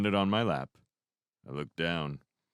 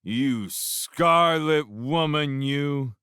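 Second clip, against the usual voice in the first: very slow, loud, high condemnation; mock drunken preacher; 7 semitones higher, 6 dB louder, much slower than usual. A narrator's reading. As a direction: denounce her like a hammy preacher. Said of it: "mock theatrical disapproval".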